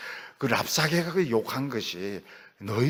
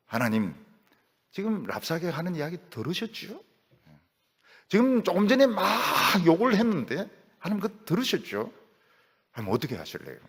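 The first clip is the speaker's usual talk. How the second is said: plain honest prayer; 6 semitones higher than usual. Acted. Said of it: "그냥 하나님 있는 그대로 이야기합니다".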